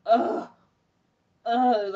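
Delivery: mock groan of revulsion; disgusted "ugh". Imitating her horror at having to serve, disgusted groan. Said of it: "like, disgust".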